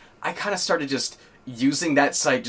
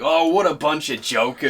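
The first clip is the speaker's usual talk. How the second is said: game character line; 4 semitones higher, 4 dB louder than usual. Retold or imitated. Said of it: "I got that from Xenoblade".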